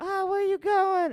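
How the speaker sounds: very high, odd, unladylike voice. Retelling a ride after hitchhiking, imitating the driver's voice. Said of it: "it sounded just like that".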